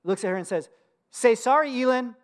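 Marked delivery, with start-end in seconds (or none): 1.1-2.1 higher, matter-of-fact imitation of a small boy; lightly voiced child reciting an instruction; parroting toddler. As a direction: repeat Dad's words like an obedient parrot. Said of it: "he parrots back to her my words".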